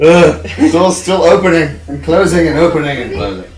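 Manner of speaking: high, loud groaning complaint; exasperated. Real, not acted. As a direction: complain loudly over the interruption. Annoyed by noisy door during recording.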